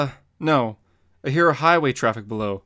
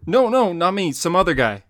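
quick loud denial; 6 semitones higher, 7 dB louder than usual. Acted. Robin denies being the father.

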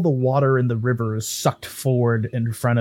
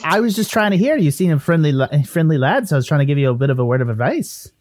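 lilting Irish-Canadian ghost voice; defensive ghost Willie; 4 semitones higher, 3 dB louder, faster than usual. Acted. Ghost explaining himself to the one he grabbed, defensive. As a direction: protest innocence in a mixed Irish-Canadian accent.

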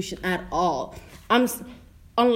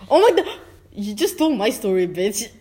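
playful outrage; 5 dB louder than usual. Real, not acted. Friend whose story got stolen, playfully outraged.

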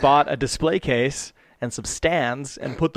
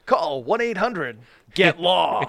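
mock TV lawyer ad. Parody of lawyer TV ad.

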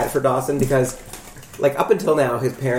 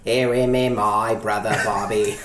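put-on Massachusetts accent; 5 semitones lower, slower than usual. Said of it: "do the Massachusetts accent".

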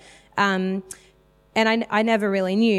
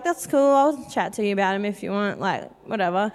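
casual, dropping in pitch; playing it cool. Answering a curious mum without seeming eager, playing it cool. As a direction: toss it off as if unbothered. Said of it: "you gotta stay cool".

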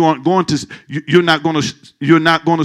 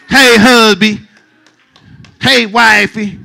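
mock cooing; 6 semitones higher, 5 dB louder, slower than usual. Voicing a cooing couple.

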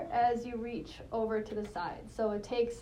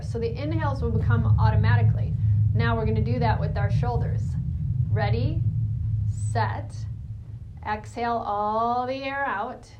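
loud coaching; 7 dB louder than usual. Real, not acted. Coaching loudly over breath of fire.

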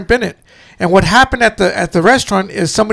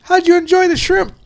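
pointed question; 10 semitones higher than usual. Retold or imitated. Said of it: "He just goes".

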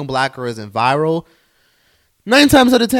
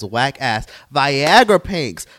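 slow, drawn out; 5 dB louder, much slower than usual. Real, not acted. Ranting about prank videos.

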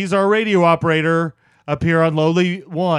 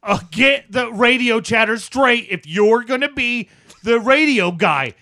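loud, higher-pitched telling-off; irritated scolding; 5 semitones higher, 3 dB louder than usual. Acted. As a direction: scold your bumbling radio partner. Scolds partner over radio chatter.

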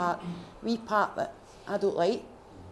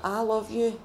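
said out loud; 4 semitones higher, 3 dB louder, slower than usual. Retold or imitated. Repeating loving words, more openly.

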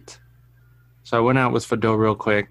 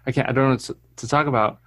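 Michael's voice. Retold or imitated. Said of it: "uh, his voice".

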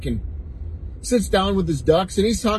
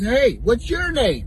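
drawn-out bartender question; 6 semitones higher, slower than usual. Acted. Bartender asks second duck.

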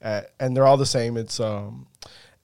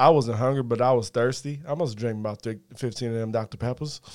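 lightly voiced simple Southern storyteller; a hint of a Southern movie character, sinking at the end; Forrest Gump. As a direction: recount it plainly in a film-character impression. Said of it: "Forrest, Forrest Gump".

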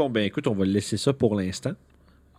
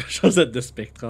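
laughing; 5 dB louder, slower than usual. Real, not acted. Repeating the pun laughing.

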